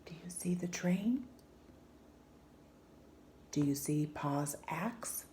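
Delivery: soft unvoiced whisper. Child hushing in the night woods, whispered. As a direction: whisper so nothing hears. Hushed questions in dark woods.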